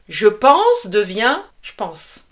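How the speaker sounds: "je pense" said as "j'pense", the E swallowed; slow demo, then "je pense" run together with no E; dropped E. Shown as a demonstration. Teacher demos spoken French to students, dropping the E. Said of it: "on oublie souvent le E".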